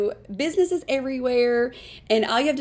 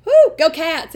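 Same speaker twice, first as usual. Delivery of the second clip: retold cheer; 7 semitones higher, 8 dB louder than usual. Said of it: "and I was like".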